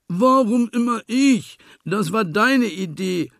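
high, loud piglet whine; squealing piglet protest; whiny complaint. A narrator's reading. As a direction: moan that it always has to do it. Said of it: "jammerte Schweinchen".

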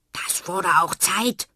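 little clown snaps at her; hissing snap. A narrator's reading. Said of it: "Doch Fred faucht". (fauchend und frech)

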